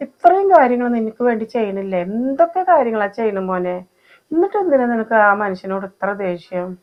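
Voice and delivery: pleading reproach. Acted. Mother pleads with angry son.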